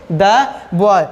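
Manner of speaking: द in द boy said as a short "duh"; consonant-sound article. Shown as a demonstration. Teacher shows students the article before a consonant sound, short "duh" pronunciation. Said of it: "तो इसको बोलेंगे द boy".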